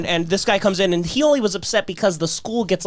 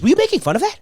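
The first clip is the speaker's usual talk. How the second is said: much higher, accusing teacher voice; stern question; 10 semitones higher, much faster than usual. Retold or imitated. Teacher confronts the student, accusing. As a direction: demand it like a caught-you teacher. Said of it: "he goes".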